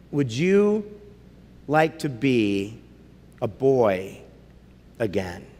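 slow low, fading lion voice; lion speaking. Acted. Aslan offering Eustace a way back, slow and low.

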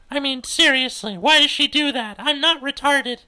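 high, loud exasperated outburst; loud, high-voiced indignation; indignant teen. Cordelia indignant about Pauline.

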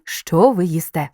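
slow, with the weight on "що" in "що ви їсте"; logical stress on що. Shown as a demonstration. Teacher shows students where the stress falls, slow and weighted on "що". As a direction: lean on "що", then let "ви їсте" follow slowly. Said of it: "падає логічний наголос".

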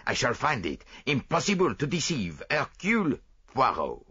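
put-on fussy Belgian detective, lightly French-accented; lightly voiced proud Belgian sleuth; Poirot voice. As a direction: play the vain little detective sure of himself.

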